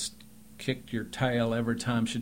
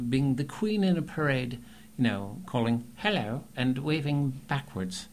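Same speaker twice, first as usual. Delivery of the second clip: queen in a parade; 4 semitones higher than usual. Shown as a demonstration. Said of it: "my catchphrase for that one is".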